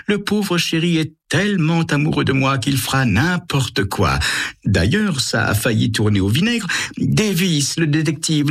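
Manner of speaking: high, gloating and triumphant; scheming woman's true voice. A narrator's reading. Carole gloats to her lover about the detective, high and mocking. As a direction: drop the mask and relish the con. Carole's secret phone call.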